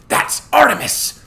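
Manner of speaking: high, slow, loud excited hiss; urgent hiss. A narrator's reading. Connor identifies the goddess to a friend, urgent hiss. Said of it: "Connor hissed to me".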